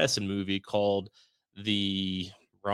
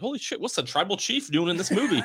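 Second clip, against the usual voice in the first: laughing; 9 semitones higher than usual. Retold or imitated. Laughing at a surprise cameo.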